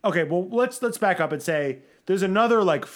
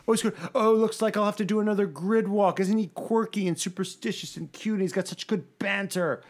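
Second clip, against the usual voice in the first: mock gushing; 4 semitones higher than usual. Mocking how media gush over Alonso.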